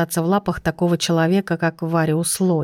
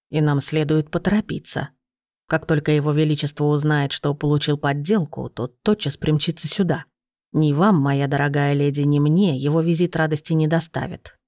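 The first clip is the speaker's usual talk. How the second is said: put-on lower, steady old gnome; 3 semitones lower than usual. Narrator voices the gnome.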